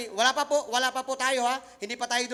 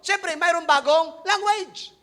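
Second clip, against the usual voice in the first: drawn out, higher and louder; slow, raised preaching emphasis; slow emphatic preaching; 6 semitones higher, 7 dB louder, much slower than usual. Real, not acted. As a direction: stretch each word for the congregation.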